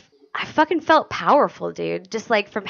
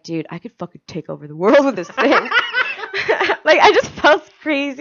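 laughing; 4 semitones higher than usual. Retold or imitated. Retold power-drunk thought, laughing.

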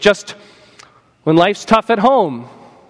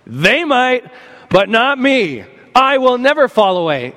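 boastful Peter; 5 semitones higher than usual. Retold or imitated. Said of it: "And Peter said".

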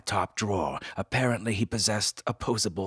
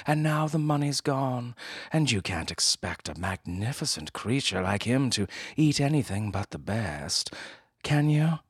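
pleading woman; 5 semitones higher than usual. Acted. Woman pleading, loud high.

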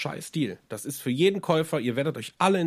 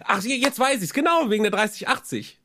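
excited realization; 8 semitones higher than usual. Real, not acted. Suddenly remembers his point.

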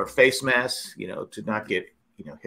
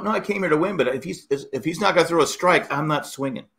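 higher-pitched, mildly indignant comeback; retold defiant retort; 4 semitones higher than usual. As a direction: argue back at a heckler, recounting it. Acted retort to heckling teammate.

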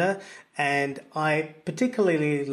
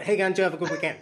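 higher-pitched broad Aussie slur; all one word, Aussie; 3 semitones higher, much faster than usual. Shown as a demonstration. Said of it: "It's all one word".

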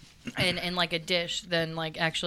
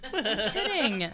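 laughing; 3 semitones higher, much slower than usual. Real, not acted. Laughing, says it again.

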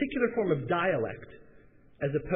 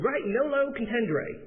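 higher, slow Southern drawl; southern accent; 8 semitones higher, slower than usual. Retold or imitated. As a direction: imitate a slow-talking Southerner. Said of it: "an incredibly southern voice".

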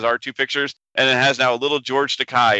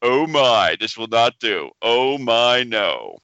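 George Takei; slower than usual. Acted. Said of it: "This is George Takei actually speaking".

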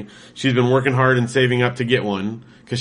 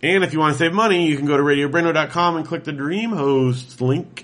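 upbeat hard-sell ad read, higher; commercial voice; 3 semitones higher than usual. Acted. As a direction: pitch it like a TV spot. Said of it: "That's my commercial voice".

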